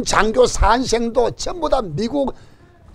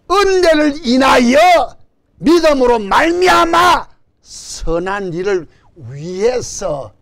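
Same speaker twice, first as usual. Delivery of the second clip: preaching shout; 2 semitones higher, slower than usual. Real, not acted. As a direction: drive the phrase home to the congregation. Preacher driving home key phrase.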